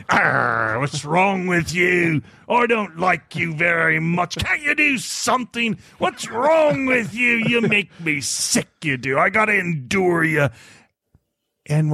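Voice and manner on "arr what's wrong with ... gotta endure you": grumpy mock pirate growl; angry pirate. The speaker mocking God as an angry pirate. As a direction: play a cranky over-caffeinated pirate. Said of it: "angry pirate with too much coffee saying".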